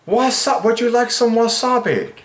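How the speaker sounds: playful high server offering wasabi; mock waiter.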